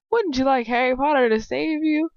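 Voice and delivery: high mocking taunt. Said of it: "Previously on Days of Our Lives".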